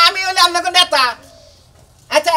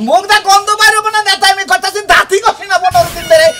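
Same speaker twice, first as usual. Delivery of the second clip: loud, higher-pitched retort; raised voice; 3 semitones higher, 4 dB louder than usual. Acted. Leader answering wife's bad-breath complaint, raised voice. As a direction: defend yourself too loudly. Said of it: "আস্তে কথা কও".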